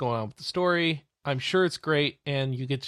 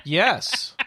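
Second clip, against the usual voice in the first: sarcastic; slower than usual. Acted. Forced excitement to tease co-hosts.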